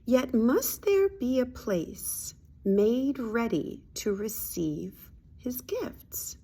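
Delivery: very slow, measured reading with weighty pauses; reading a spiritual lesson. Acted. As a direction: read scripture-like, leaning on each phrase. Reads lesson aloud.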